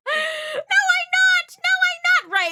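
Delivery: high, loud playful denial; loud mock outrage; shouted protest. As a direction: yell it back in fun. Protests joke with chat.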